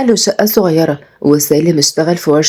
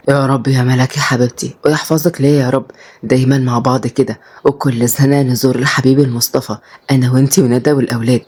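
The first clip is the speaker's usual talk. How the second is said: lightly voiced man, lower pitch; low, understated loving prayer; devoted husband; 5 semitones lower than usual. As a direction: wish it fondly in a lower voice. Husband replying, figure of the story.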